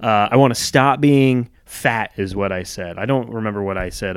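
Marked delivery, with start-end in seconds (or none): 0.0-2.1 joking. Retold or imitated. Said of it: "And so jokingly".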